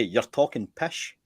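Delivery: slow "pish", ending in sh; Scots pronunciation. Shown as a demonstration. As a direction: draw out "talking pish" with a Scottish sh. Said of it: "Or we say".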